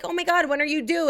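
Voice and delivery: high, imitated chirpy question; mock an excited well-wisher; gushing stranger. Nosy stranger asking the due date, gushing.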